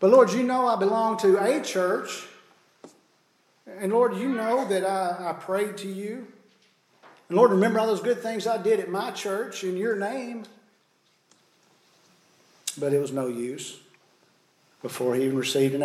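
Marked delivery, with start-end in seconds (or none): 0.0-10.4 higher, pleading, trembling; quivering voice. Acted. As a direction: beg with a shaky voice. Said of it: "he says with a quivering voice".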